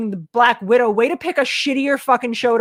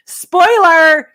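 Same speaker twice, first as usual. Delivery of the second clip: mock shout; 8 semitones higher, 9 dB louder than usual. Mocking the stupid name.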